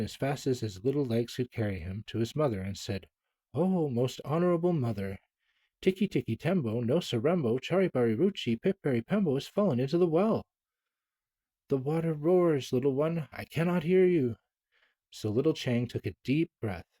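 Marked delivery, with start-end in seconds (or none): 3.5-10.4 a lightly voiced small boy, urgently calling mother; little boy calling. Chang calls to his mother. 11.7-14.4 mother calling back. Acted. Mother answers over the water.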